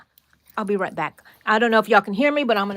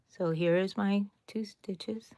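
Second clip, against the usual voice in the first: whisper; 7 dB quieter than usual. Real, not acted. Whispering while stitching.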